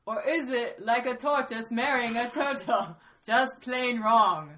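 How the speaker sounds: attempted Myanmar accent, stretched last words. Panelist rereads the question on request in an improvised Myanmar accent. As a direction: put on a mock Myanmar accent. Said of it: "a Myanmar accent".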